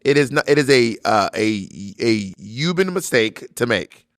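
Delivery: put-on halting, accented senator voice; Bernie Sanders. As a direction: stumble over uhs, then draw out the key word. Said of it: "continue the interview as this person".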